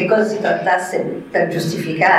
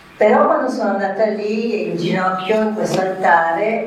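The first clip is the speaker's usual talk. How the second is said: plain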